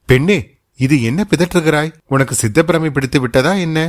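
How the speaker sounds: jolted into a sharp startled question. Acted. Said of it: "Kundavai Devi திடுக்கிட்டவளாய்".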